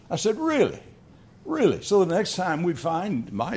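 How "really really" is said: high-pitched incredulous "Really?" twice; mock disbelief. Grandfather doubting his wife's denial, playfully incredulous. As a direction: act amazed at the claim.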